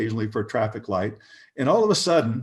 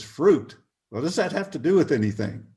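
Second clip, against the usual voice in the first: baffled retort; 5 semitones higher than usual. Retold or imitated. Companion questioning the stranger on the sidewalk, baffled and high. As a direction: toss it back in disbelief.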